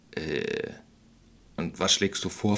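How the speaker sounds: deflate, unsure now. Acted. Witch asks the expert, deflated and unsure. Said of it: "etwas weniger selbstsicher".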